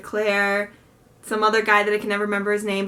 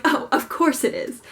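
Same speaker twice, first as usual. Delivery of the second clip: breezy, falsely bright resignation; cheerfully; 3 semitones higher than usual. Retold or imitated. Told the book line is closed, answering with mock cheer. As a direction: pretend it's fine, lightly upbeat. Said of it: "like, cheerfully".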